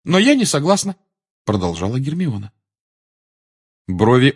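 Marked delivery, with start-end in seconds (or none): 0.0-0.9 high, firm pupil's objection; ringing voice. A narrator's reading. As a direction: disagree in a high, carrying voice. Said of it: "а говорила звонким голосом". (звонкое, твёрдое возражение)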